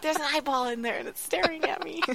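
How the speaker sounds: high-pitched retold alarm; lightly hammed-up distress; mock alarm. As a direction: report it as if freaked out, pitch climbing. Retelling her alarmed report outside.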